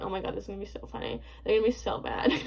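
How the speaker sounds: low, soft, quick aside to oneself; offhand self-imitation. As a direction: murmur it fast, as if privately amused. Acts out own glee when posting.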